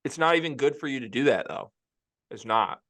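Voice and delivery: chewing while talking; mouth full. Real, not acted. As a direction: talk through a mouthful of food. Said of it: "Sorry, I'm chewing again".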